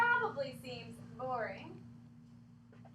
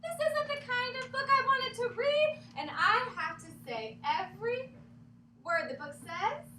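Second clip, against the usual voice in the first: mock whine; 7 semitones higher, 5 dB louder than usual. Reader complains in mock despair.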